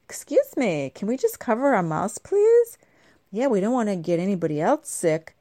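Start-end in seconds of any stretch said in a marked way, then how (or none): 0.0-2.8 scolding. Pretend. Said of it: "I'm gonna".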